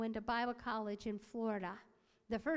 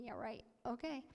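doubtful inner thought; 5 dB quieter than usual. Acted. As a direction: say it softly, privately unconvinced. I'm thinking.

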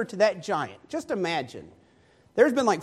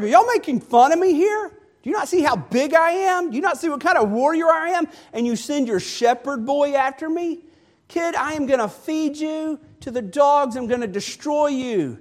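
higher, louder, furious mocking roar; angry giant's taunt; 7 semitones higher, 4 dB louder than usual. Goliath taunting the boy David, angry and loud. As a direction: bellow threats at the little shepherd boy. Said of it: "Goliath gets angry".

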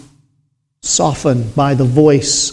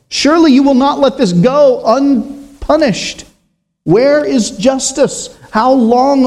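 a higher, pleading cry for justice; voice of sin crying out; 5 semitones higher than usual. Acted. Preacher voicing sin that demands justice, raised plea. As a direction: lament to God like a wronged victim. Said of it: "Stolen money has a voice".

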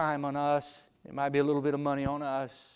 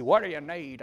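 Tennessee country drawl; 4 dB louder than usual. Retold or imitated. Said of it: "Old country boy from Tennessee".

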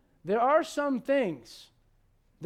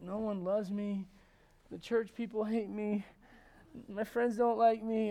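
slow mock moping; hammed-up woe-is-me complaint; mock self-pity. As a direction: whine a little, dragging out each grievance. Elijah moping under the tree.

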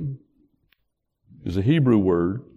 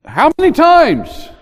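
Peter pleading, drawing out the question; quoting Peter; 8 semitones higher, 6 dB louder than usual. Retold or imitated. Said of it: "So Peter said".

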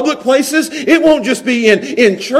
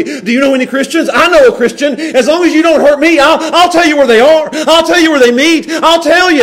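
betrayer voice; 5 semitones higher, 3 dB louder than usual. Acted. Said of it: "they'll be".

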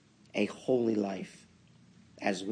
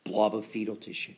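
sarcastic; faster than usual. Acted. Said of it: "I'm being sarcastic".

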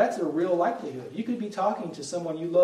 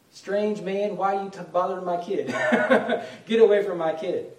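mock protective mom shooing a stranger; hammed-up mother, higher and a touch louder; mother scolding; 3 semitones higher, 5 dB louder than usual. Mother telling a preacher to get away from her kid, mock scolding.

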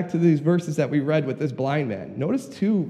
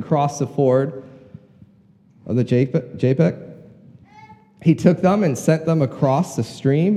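measured, projected Bible reading; scripture reading. Acted. Preacher reads the story of Jacob to the congregation, measured reading aloud. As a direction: read the passage out to the congregation.

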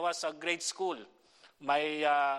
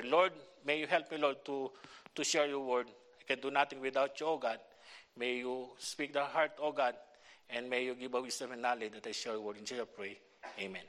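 prayer; 2 semitones lower than usual. Acted. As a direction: pray humbly before the sermon. Leads a prayer.

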